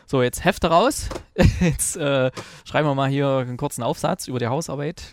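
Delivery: playful classroom teacher giving orders; strict teacher. Pretend. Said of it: "als Hausaufgabe aufgegeben hatte".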